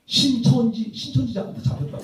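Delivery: exaggerated mouthed cry for help, pitched high; mock covert warning, over-articulated and high; imitated mouthing. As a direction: act out a kid mouthing to friends. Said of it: "입 모양 가지고 이렇게".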